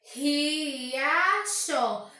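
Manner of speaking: RIACHO esticado em três partes, RI-A-CHO; separado em sílabas. Shown as a demonstration. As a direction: diga "Riacho" devagar, sílaba por sílaba. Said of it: "eu percebo que eu tenho três sílabas". (silabado, RI... A... CHO)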